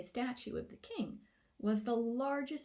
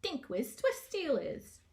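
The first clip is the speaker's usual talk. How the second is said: small gnome voice; 5 semitones higher, 4 dB louder, slower than usual. A narrator's reading. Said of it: "piped up a small voice".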